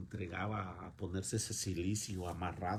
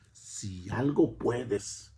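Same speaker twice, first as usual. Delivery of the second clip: slow, drawn-out, skeptical "Si algo puedes"; slow mock doubting plea; doubtful challenge; 2 semitones higher, 5 dB louder, much slower than usual. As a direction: toss the question out without believing it. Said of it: "no creyendo lo que preguntas".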